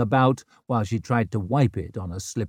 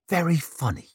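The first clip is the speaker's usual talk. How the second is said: sarcastic; 6 semitones higher than usual. Acted. Rikke's sour reply.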